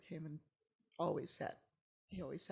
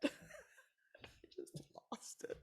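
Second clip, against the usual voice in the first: whispered admission; hushed aside; 5 dB quieter than usual. Real, not acted. Recalling losing it, whispered. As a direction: breathe it out. Laughing recollection.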